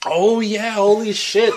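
hoge, lachende uitroep; laughing realization. Real, not acted.

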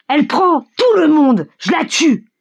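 high, slow, emphatic boast; shouting. A narrator's reading. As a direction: cry it out high, stretching the words. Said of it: "crie Mikolka". (cri haut, appuyé et traînant)

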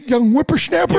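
put-on old prospector. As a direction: scold like a crotchety old prospector. Old-timer scolds the young.

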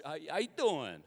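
casual New York greeting; New York accent. Shown as a demonstration. Preacher attempting the local greeting, New York accent. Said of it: "a New York accent".

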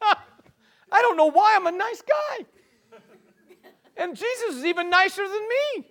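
high, laughing self-mockery. Real, not acted. Preacher laughing at himself before the congregation, high chuckle. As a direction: chuckle through the words. Laughs at his own joke.

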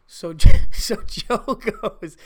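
real laugh stretching the words. Real, not acted. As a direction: break up while setting up the quote. Laughs while introducing Joe's order.

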